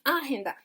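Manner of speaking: agenda wrongly stressed on its opening A; first syllable A leaned on in agenda. Shown as a demonstration. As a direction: say agenda as AH-henda, showing the error. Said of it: "No es en la primera".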